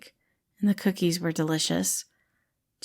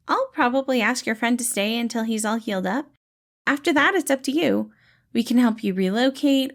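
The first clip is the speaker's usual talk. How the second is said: gentle dad-like rescuer, pitched up and bright; cheerful caretaker Patton; 4 semitones higher than usual. Acted. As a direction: play the kind, upbeat helper calming a scared kid. Patton explains options.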